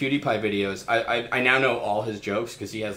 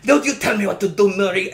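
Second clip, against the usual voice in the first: mock angry yell; 9 semitones higher, 6 dB louder than usual. Mocking a YouTuber yelling at a skull.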